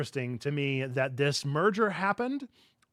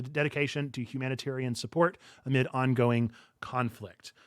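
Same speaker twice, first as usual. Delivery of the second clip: news read. Real, not acted. Reads out a news item.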